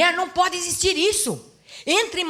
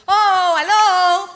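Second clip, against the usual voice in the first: loud, high, slow drawn-out call for attention; mock loud hello; 7 semitones higher, 10 dB louder, much slower than usual. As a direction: stretch it out loud to wake him up. Wife demanding husband's attention.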